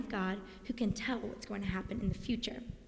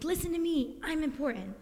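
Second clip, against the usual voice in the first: mock shout; 5 semitones higher than usual. Shown as a demonstration. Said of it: "they're kind of shouting in a way".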